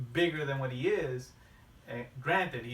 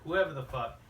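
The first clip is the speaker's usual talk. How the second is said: booming monster truck announcer; 3 semitones higher than usual. Retold or imitated. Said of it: "that fucking monster truck guy going".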